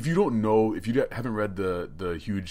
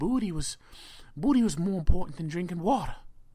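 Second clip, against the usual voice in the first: put-on tough old man voice, high-pitched and pitched-up; 9 semitones higher than usual. Describing a man, quoting what he said in his high-pitched voice. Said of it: "he's a high pitched voice".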